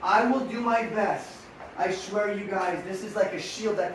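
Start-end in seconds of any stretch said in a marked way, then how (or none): 0.0-1.3 slow, deliberate line. Shown as a demonstration. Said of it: "So riders".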